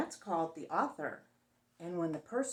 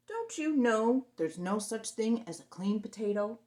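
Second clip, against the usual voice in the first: monster voice; 5 dB louder than usual. Acted.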